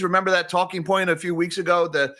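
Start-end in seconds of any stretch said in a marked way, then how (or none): 1.9-2.1 a lightly put-on British accent, pitched up at the end; British accent as a rushed joke; bad British accent. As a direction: do a quick, cheesy British accent impression. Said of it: "that's my British accent".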